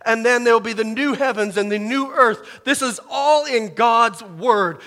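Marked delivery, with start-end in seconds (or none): 2.6-4.8 slow, loud, fervent cry; preaching shout. Real, not acted. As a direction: proclaim it to the whole church, slowly. Preacher declaring scripture's truth.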